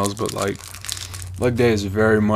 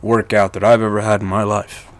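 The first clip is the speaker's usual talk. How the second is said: catching breath mid-sentence. Real, not acted. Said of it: "if I sound out of breath, I am out of breath".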